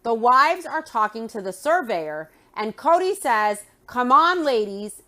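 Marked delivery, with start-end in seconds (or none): 3.9-5.0 mock-impatient call, punching the first words. Husband hurries his wives away from the surveyor, impatient. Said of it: "really impatiently".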